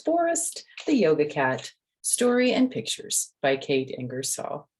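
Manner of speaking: bright, lively storybook reading; reading to children. A narrator's reading. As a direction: read the title to the kids with a lift. Reading the book title aloud.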